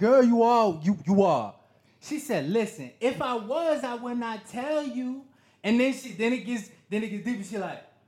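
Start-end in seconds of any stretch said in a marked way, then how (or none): 2.5-5.2 put-on Haitian accent, higher. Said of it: "she's Haitian. That's how she sounds".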